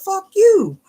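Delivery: very high, loud mock yell; cussing grandpa. Imitating grandpa cussing at everybody, aggravated. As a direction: fling it out as a cranky grandpa's outburst. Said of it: "they start cussing at everybody".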